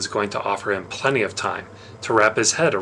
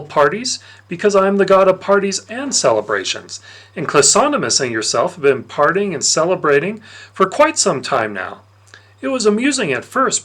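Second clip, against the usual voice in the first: sly Dionysus; 3 semitones higher, 3 dB louder than usual. Acted. Dionysus taunting the boy who drank his wine, smug and loud. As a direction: savour the gotcha like a smug god.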